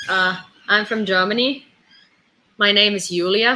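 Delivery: badly faked German accent; attempted German accent. Shown as a demonstration. Trying to pose as German, half-hearted German accent. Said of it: "I can't do a German accent".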